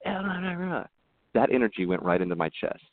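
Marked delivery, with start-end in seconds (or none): 0.1-0.9 mock grumbling. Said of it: "he said".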